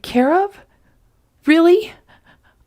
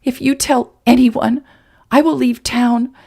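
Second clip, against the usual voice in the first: higher, louder angry woman; angry threat; 6 semitones higher, 4 dB louder than usual. Acted. Woman threatening the man to keep her secret. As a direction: warn him hard, meaning every word.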